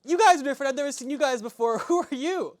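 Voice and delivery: put-on high, loud eager boy; excited kid voice. Young son greets the strangers, high and eager. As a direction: bounce with a young lad's excitement. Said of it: "He goes".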